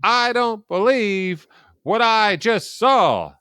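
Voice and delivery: big home-run call, slow, high and loud; drawn-out stunned announcer cry; Jack Buck. Retold or imitated. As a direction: belt it out like a sportscaster, word by word. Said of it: "he calls it the Gibson home run".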